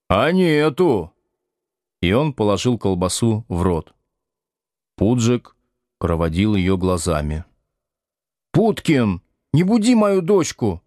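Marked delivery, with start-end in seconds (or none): 0.1-1.1 slow, higher mock taunt; teasing. Будкин дразнит кота колбасой, медленно и насмешливо. 8.5-10.8 put-on shrill little girl's angry cry, much higher; angry child. Тата ругает Будкина за то, что будит куклу, сердито и высоко. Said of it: "гневно сказала Тата".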